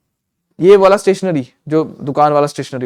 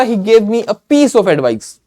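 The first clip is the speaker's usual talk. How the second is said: slow dictation; 3 semitones higher, much slower than usual. Shown as a demonstration. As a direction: read the example sentence very slowly, phrase by phrase. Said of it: "फिर मैंने बोला".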